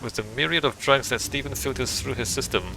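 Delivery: ordinary talk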